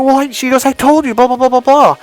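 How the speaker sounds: high, loud mock nagging; hammed-up argument sliding into blah-blah; acted bickering. Acted couple's quarrel.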